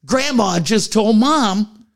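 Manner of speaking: slow, stunned disbelief, rising at the end; stunned aside. Retold or imitated. Narrator stunned as grandma swears at mom, slow and disbelieving. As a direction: gasp it out like you can't believe it. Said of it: "Now I'm like".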